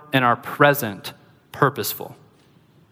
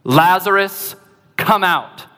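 mild imitated shout, pitched higher; restrained retold yell; 4 semitones higher, slower than usual. Preacher voicing Jesus calling a dead man from his tomb, restrained yell. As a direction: call out commandingly, short of a full yell. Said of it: "He cries out with a loud voice. He yells".

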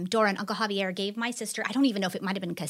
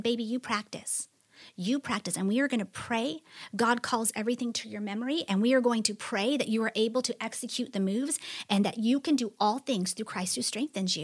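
tender comfort; 6 dB quieter than usual. Retold or imitated. Mother comforting crying daughter.

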